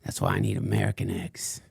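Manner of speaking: lightly voiced crank ranting about the sun; a hint of a paranoid conspiracy ranter; Frank Blanders. Fringe podcaster rants to his followers, lightly put-on crank voice. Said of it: "what you just heard was, uh, um, Frank Blanders".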